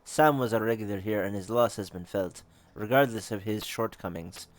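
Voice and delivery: put-on measured, approximate Russian accent; a loosely done Russian accent. Game character explaining her stake in the murders, Russian accent. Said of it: "want to give her a Russian accent".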